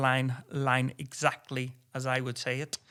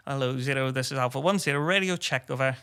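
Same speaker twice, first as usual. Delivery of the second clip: crisp, louder formal radio call; formal radio check; 5 dB louder than usual. Retold or imitated. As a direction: call it in by the book over the radio. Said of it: "that's what it's like".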